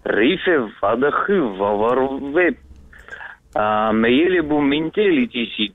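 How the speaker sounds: минтели тисиц said as reversed gibberish; backwards speech. Pretend. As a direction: read the phrase backwards, sound by sound. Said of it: "поздравить задом наперёд".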